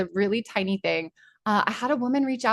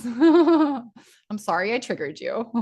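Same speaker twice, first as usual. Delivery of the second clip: mock apology; 4 semitones higher, slower than usual. Mock apology she says isn't meant.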